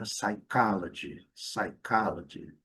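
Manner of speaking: slow "psychology" as sai-KA-la-dji; segunda sílaba forte. Shown as a demonstration. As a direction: lean on KA in "psychology", silent P. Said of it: "segunda sílaba é a sílaba forte". ("psychology" devagar, soando "sai-CÁ-la-dji")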